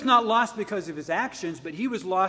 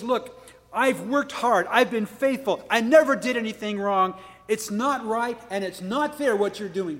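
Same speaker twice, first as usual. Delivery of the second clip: mock sarcastic; 3 semitones higher than usual. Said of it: "he was sarcastic".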